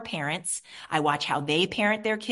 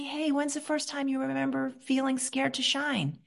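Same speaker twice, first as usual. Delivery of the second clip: gentle questioning; 3 semitones higher than usual. Shown as a demonstration. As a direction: ask gently, like a therapist. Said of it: "And I say".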